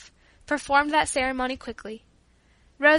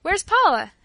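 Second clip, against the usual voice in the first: higher, louder surprised call; crying out; 6 semitones higher, 7 dB louder than usual. A narrator's reading. Family leaving the house looking for Paula, calling out. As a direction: call out the question, pitched up. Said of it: "everybody cried".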